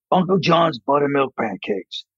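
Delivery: slow, measured voiceover read; lightly voiced nice New Hampshire announcer; folksy voiceover guy. Pancake ad voiceover for kids, folksy announcer. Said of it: "one of those nice New Hampshire".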